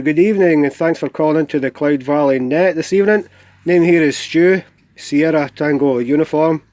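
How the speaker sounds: talking around a cigar in mouth; words round a cigar clamped in mouth. Real, not acted. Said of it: "I've got a cigar in my mouth".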